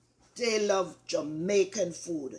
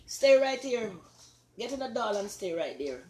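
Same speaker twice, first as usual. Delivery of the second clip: firm call; 3 semitones higher, 4 dB louder than usual. Real, not acted. Ordering a child to stay.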